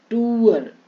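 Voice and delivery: टूअर with held "too" before "ar"; long oo vowel. Shown as a demonstration. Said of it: "बड़ी यू की मात्रा".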